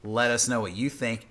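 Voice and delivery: dramatic low voice. Pretend. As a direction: drop the voice low and hushed on 'Let us know what you think'. Close-up plea repeated in low voice.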